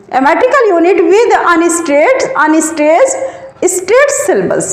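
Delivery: slow, word by word for note-taking; slow dictation. Shown as a demonstration. Teacher dictating a definition to students, slowly and deliberately.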